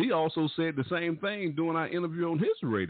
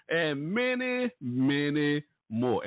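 drawn-out many; much slower than usual. Real, not acted. Emphatic list ending on the radio.

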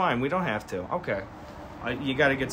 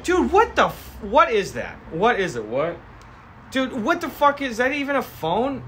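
much higher, yelping disbelief; high-pitched mock bewilderment; baffled cops; 10 semitones higher than usual. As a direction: freak out at the ancient phone. Cops baffled by antique phone.

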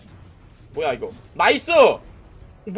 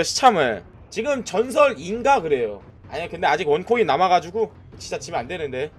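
ordinary delivery

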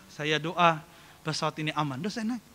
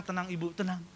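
imitated reassurance; 8 dB quieter than usual. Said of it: "Saya bilang".

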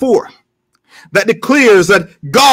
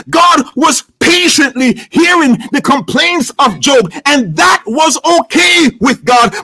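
higher-pitched, driving sermon delivery; impassioned preaching; 4 semitones higher than usual. Real, not acted. Preacher telling the congregation how friends interrupted Job, impassioned preaching. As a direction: preach it with rising fervor.

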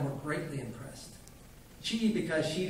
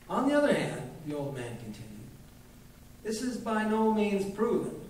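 put-on old doctor lecturing; 3 semitones higher than usual. Old doctor lecturing the widow, pompous. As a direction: lecture the widow with grand self-importance.

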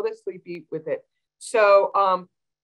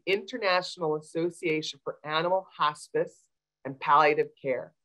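deliberate, carefully spaced name; slow and careful; 4 dB quieter than usual. Real, not acted. Vet giving callers a hard organization name, slow and careful. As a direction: take the long title slowly, word by word. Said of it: "I'm gonna say it slow".

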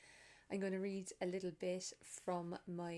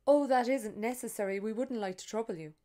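polite refusal; 3 semitones higher, 11 dB louder than usual. Acted. Tourist politely declines.

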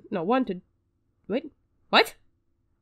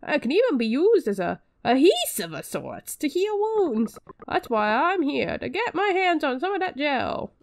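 put-on slightly higher lisping old doctor, slowed; lightly voiced quack doctor, lisping; a hint of a lisping doctor greeting the hero; character with a lisp; 4 semitones higher than usual. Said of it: "I don't know who he talks like that".

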